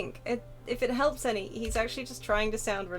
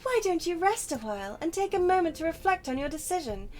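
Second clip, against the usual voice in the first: NPC voice; 5 semitones higher than usual. Acted. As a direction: read it as a stately quest giver. Reads NPC dialogue aloud.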